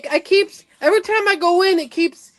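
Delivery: broken stream audio; corrupted glitchy audio. Real, not acted. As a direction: sound cutting in and out. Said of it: "the stream is acting weird today".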